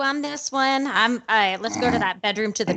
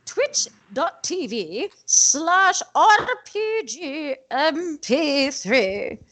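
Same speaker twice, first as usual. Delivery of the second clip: put-on slow, creaky old granny voice; very old woman; much slower than usual. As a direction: drag it out like a tipsy old lady. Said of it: "Sounds like a very old lady".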